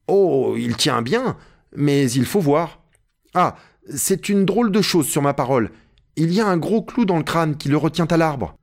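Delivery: inspect and marvel, lightly in character; Jupiter, puzzled climber. Acted. Narrator voices Jupiter inspecting skull. (Jupiter, étonnement légèrement joué)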